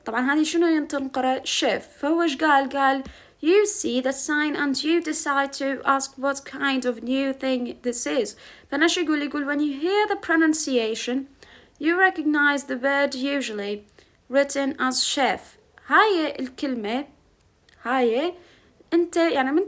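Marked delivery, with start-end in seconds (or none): 3.4-8.4 careful, slow read-aloud of English text; slow textbook reading. Acted. Teacher reading the English passage to her class slowly. 9.5-15.4 careful, slow read-aloud of English text; slow textbook reading. Acted. Teacher reading the English passage to her class slowly.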